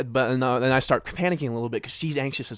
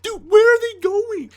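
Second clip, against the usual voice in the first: much higher, louder, slow frantic question; high panicked plea; 8 dB louder, slower than usual. Retold or imitated. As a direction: plead in alarm, drawn out. Panic repeated to Winston.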